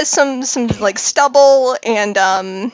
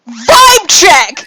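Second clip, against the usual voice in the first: loud shouted challenge, pitched up; stranger's brash war cry; screamed battle cry; 4 semitones higher, 9 dB louder than usual. Acted. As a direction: yell it as you charge in. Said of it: "someone scream".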